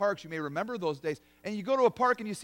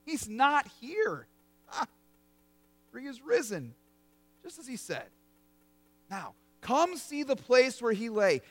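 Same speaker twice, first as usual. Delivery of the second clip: joyful angel. Acted. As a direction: announce the good news with a smile. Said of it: "Listen to the sermon of the angel".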